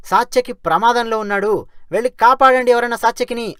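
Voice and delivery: retold shout. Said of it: "వెంటనే గట్టిగా అరిచాడు".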